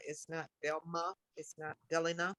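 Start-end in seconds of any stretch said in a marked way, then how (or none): 0.6-1.1 DELMA slowly, in two syllables, DEL-muh; mispronounced name. Retold or imitated. Guest listing names they were called, mispronounced "Delma" as DEL-muh. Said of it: "things that I was called". 1.9-2.3 DELINA as DEL-ih-nuh, stressed up front; mispronounced name. Retold or imitated. Guest listing names they were called, mispronounced "Delina" as DEL-ih-nuh. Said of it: "things that I was called".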